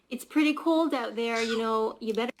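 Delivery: casual Canadian "you know" dropped mid-sentence, know stressed; Canadian example phrase. Shown as a demonstration. Explaining Canadian slang to the podcast, casual Canadian tone. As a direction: say it like a neighbor warning about the cold, you know. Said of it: "So a phrase might be".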